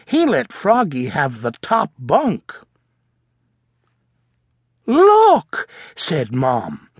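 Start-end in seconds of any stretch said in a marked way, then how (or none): 4.9-5.7 high, louder call for attention; bright look. Acted. Mom pointing out the principal, high bright call. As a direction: point it out eagerly.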